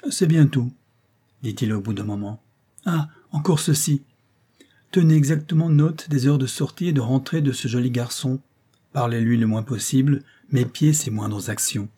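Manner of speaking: lightly voiced old clerk, knowing and insinuating; hint at danger like a crafty old law clerk; sly old clerk. Old clerk warns the concierge of her enemies, lightly insinuating.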